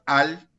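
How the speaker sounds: "Al" isolated as the stressed syllable; single out "Al" firmly. Shown as a demonstration. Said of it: "sílaba tónica". ("Al" pronunciado como sílaba tónica)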